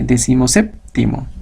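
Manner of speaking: "decimoséptimo" with SÉP held before the ending; stress on SÉP. Shown as a demonstration. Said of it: "El último mantiene".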